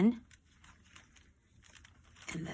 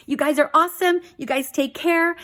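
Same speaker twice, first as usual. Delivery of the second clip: high, louder bubbly farewell; excited sign-off; 7 semitones higher, 5 dB louder than usual. Real, not acted. Vlogger thanking viewers, bubbly and high.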